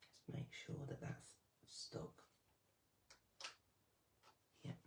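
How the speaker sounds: whispering. Real, not acted. Concentrating on gluing.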